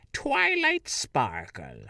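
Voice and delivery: slow, lightly witchy princess; a hint of the Wicked Witch. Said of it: "make her sound like the Wicked Witch of the West".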